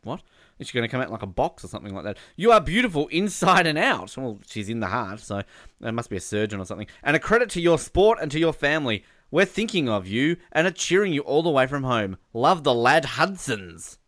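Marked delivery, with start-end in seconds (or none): 2.4-4.1 lifted, emphatic message read-out; reading fan message. Acted. Radio host reading a family's message to an athlete, emphatic. 7.0-14.0 lifted, emphatic message read-out; reading fan message. Acted. Radio host reading a family's message to an athlete, emphatic.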